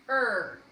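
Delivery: "Er" loud, as a single beat; isolated syllable. Shown as a demonstration. Teacher showing the last syllable, "Er" loud and separate. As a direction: punch out "Er" on its own. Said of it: "we would draw lines".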